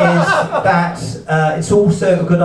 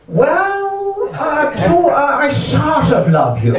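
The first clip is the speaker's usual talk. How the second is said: mock shy reply; 10 semitones higher, much slower than usual. Foreman's hesitant answer.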